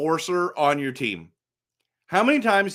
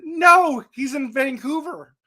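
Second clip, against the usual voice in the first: shouted much higher and louder; gleeful retort; 9 semitones higher, 4 dB louder than usual. Real, not acted. Host answering imagined Oilers players with a triumphant shout. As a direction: yell the punchline back at them.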